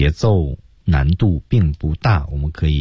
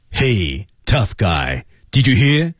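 气息足; 4 semitones higher, much slower than usual. Shown as a demonstration. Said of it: "那气息是够足的".

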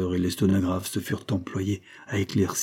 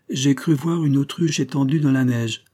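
docile reading; 6 semitones higher, 4 dB louder than usual. A narrator's reading. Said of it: "lut docilement le sténographe".

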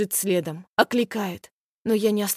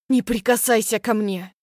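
shouting. Acted. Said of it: "кричу".

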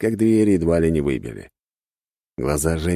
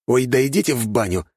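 disgruntled; 7 semitones higher than usual. A narrator's reading. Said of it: "недовольно уставился".

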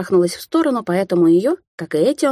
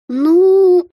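long, much higher and louder drawl; drawn out; 13 semitones higher, 7 dB louder than usual. Acted. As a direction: stretch the word to stall. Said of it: "протянула Алисия".

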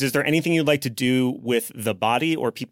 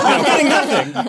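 louder, higher, slow mock frustration; mock complaint; 8 semitones higher, 5 dB louder than usual. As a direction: whine it out like no signal. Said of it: "You're like".

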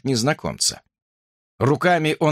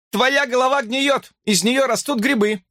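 high, teasing singsong jeer; woman taunting a sleepless man; mocking taunt; 10 semitones higher than usual. A narrator's reading. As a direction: needle him like a schoolyard bully. Sharon taunts Chad.

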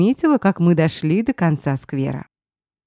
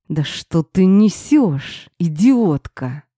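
growl through teeth; much slower than usual. Acted. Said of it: "сквозь зубы зарычал".

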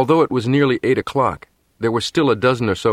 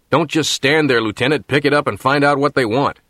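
raised, commanding officer's order; demanding; 5 semitones higher than usual. Acted. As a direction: bark the order at the lieutenant. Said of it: "demanded the operations officer".

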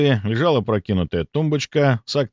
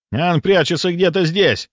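excited hunter; 8 semitones higher, 3 dB louder than usual. Acted. Second hunter searching the room.

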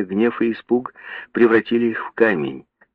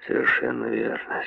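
sly whisper; 9 semitones lower, 6 dB quieter than usual. A narrator's reading. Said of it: "Он хитро качнул головой".

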